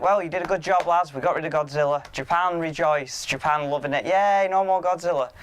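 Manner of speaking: a fake triumphant pep talk to the lads; mock cheering crew. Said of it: "it's like".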